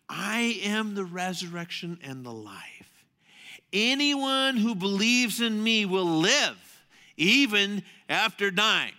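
slow, weighty scripture read. Acted. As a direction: let each word of the verse land. Pastor reading scripture slowly.

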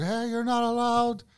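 high, slow, drawn-out nagging; scolding passer-by. Retold or imitated. Dog walker objecting to a parked car, scolding.

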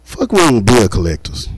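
ordinary talk

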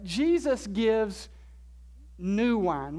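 "new" drawn out and set off after a pause; stress on new. Shown as a demonstration. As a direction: lean on the word "new", slowly. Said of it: "with the emphasis on the word new".

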